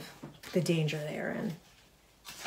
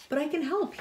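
protesting; 9 semitones higher than usual. A narrator's reading. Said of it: "he protested".

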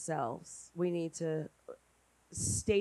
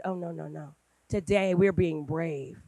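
gentle reassurance. Retold or imitated. Reassuring scared daughter.

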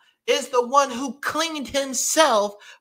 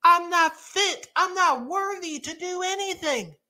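higher-pitched, mildly distraught retold confession; retold tearful disbelief; 5 semitones higher than usual. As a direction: voice Isaiah's unworthiness, higher, without real crying. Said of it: "like, in tears".

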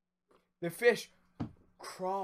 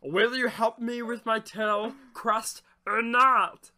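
salamander voice; 6 semitones higher, 6 dB louder than usual. Acted. Salamander pleads with fisherman.

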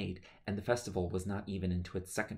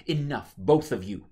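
loud, higher roar; 5 semitones higher, 10 dB louder than usual. Acted. Mother silencing her quarrelling children, loud roar. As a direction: stop both children cold. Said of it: "Osmara roared".

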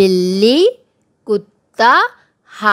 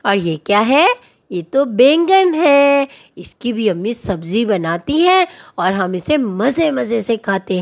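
put-on teaching young children. Teacher reviewing fruit, bird and animal names with children, sing-song. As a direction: lilt each listed word upward like a children's lesson.

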